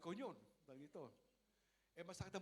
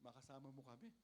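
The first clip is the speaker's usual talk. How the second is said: tearful prayer; 4 semitones lower, 14 dB quieter than usual. Retold or imitated. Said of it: "umiyak ako".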